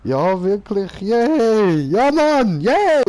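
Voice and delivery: high, loud gleeful cheer; excited cheering. Acted. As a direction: cheer at the top of your voice. Cheering in game.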